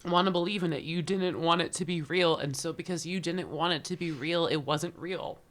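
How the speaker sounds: retelling through real tears, pitched high; choked-up storytelling, high and easing down; tearful. Real, not acted. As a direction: keep going while trying not to cry. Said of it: "why am I crying?".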